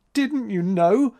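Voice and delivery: high, slow, tearful wail; sobbing. A narrator's reading. April reproaches Max, sobbing. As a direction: plead high and drawn out. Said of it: "sobbed April".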